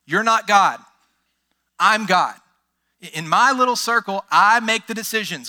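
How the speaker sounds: loud, cocky mock prayer; proud person talking to God. Proud believer lecturing God, loud and cocky. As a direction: brush God off like a boss. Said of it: "Pride is looking and saying".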